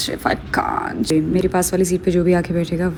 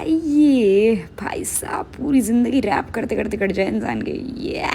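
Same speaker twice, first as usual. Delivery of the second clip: whispering; 4 semitones higher, slower than usual. Real, not acted. Secretly judging fellow passengers.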